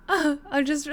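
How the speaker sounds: choked up, breaking off; words catching on real tears; real crying. Real, not acted. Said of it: "liquid lost with my tears".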